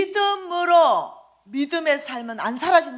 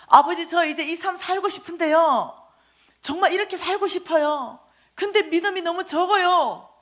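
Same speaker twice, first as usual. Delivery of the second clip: earnest prayer; 4 semitones higher, 3 dB louder than usual. Retold or imitated. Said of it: "그래서 제가 주님 앞에 갔습니다".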